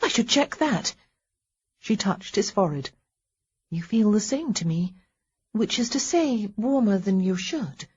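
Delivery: lightly voiced wife, hopeful; a hint of relieved reassurance; reassuring wife. Wife checks husband's fever.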